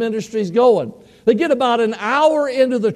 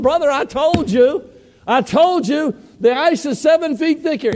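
higher-pitched, insistent retort; excited I-told-you-so; 5 semitones higher than usual. Retold or imitated. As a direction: act out gleeful vindication. Friend crows he was right.

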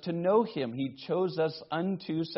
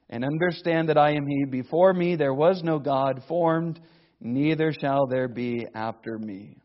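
louder, solemn reading of scripture; 4 dB louder than usual. Acted. Preacher reads scripture aloud.

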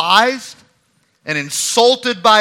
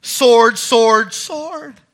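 mock angry; 2 semitones higher, much slower than usual. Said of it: "a few moments later saying".

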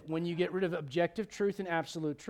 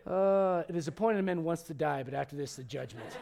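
hammed-up prophet of judgment; mock doom; 4 semitones lower than usual. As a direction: parent joking judgment on the kid. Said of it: "my answer would be".

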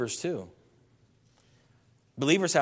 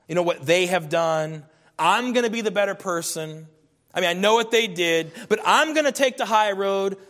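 self-righteous people mocked; 2 semitones higher, 4 dB louder than usual. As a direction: mimic the smug "better person" crowd. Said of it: "People say".

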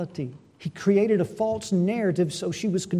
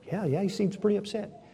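soft, submissive reply; acted cowed concession; meek agreement; 5 dB quieter than usual. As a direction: agree quietly to placate her. Cowed Naboth answering Jezebel, acted.

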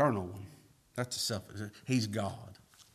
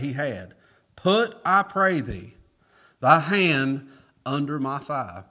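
scripture reading; 4 dB louder than usual. Acted.

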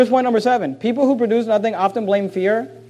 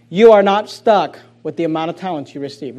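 dictation; 6 semitones lower than usual. Shown as a demonstration. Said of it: "Please write it down".

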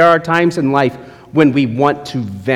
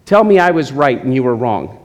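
harsh lecture; 3 semitones lower than usual. Retold or imitated. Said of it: "A mentor doesn't do".

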